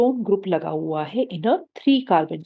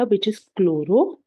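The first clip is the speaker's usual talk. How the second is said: slow deliberate naming; 3 dB louder, much slower than usual. Shown as a demonstration. Teacher announcing prefix name.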